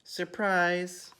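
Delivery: high, loud party shout; excited shout. A narrator's reading. Ladies surprise the guest of honour, excited shout. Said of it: "all the ladies shouted".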